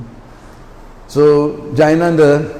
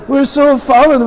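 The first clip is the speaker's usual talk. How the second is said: much higher wail, stress on so; mock lament repeated; 11 semitones higher than usual. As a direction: lean harder on so in despair.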